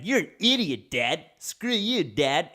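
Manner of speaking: high, loud mock tantrum at dad; bratty kid yelling. Kid yelling insults at his dad, mock angry high shout. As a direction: spit it out like a furious brat.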